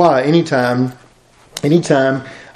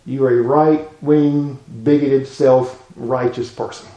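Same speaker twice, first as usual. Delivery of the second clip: mock accusation; 2 semitones lower, slower than usual. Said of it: "very angry at you".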